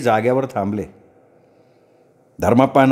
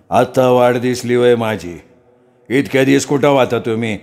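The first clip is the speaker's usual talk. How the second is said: possessed priest. Acted. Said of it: "घुमता घुमता बोलायला लागला". (घुमत बोलणारा भगत)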